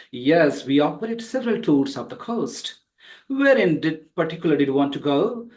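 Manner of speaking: long breath through to the full stop; flowing full phrases. Shown as a demonstration. Teacher models flowing reading for students, flowing full phrases. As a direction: let each sentence flow unbroken to its end. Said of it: "take a long breath and you have to finish up".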